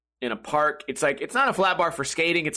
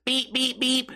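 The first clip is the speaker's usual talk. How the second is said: mock car honk; 7 semitones higher, slower than usual. Car honking three times.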